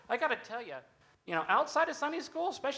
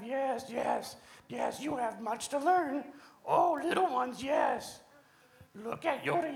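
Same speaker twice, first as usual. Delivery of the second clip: put-on wise old sage. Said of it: "Dude, what are you doing?".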